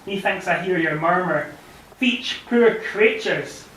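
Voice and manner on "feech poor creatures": put-on Annandale Scots accent. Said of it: "and your accent, inimitable Annandale".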